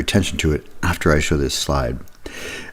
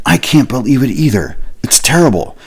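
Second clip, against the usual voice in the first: high, breathy whisper of shared disbelief; a service agent mirroring an upset caller in a high whisper; matching sympathetic agent; 8 semitones higher, 4 dB louder than usual. Retold or imitated. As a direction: echo the caller's upset right back to them. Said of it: "the customer service person saying".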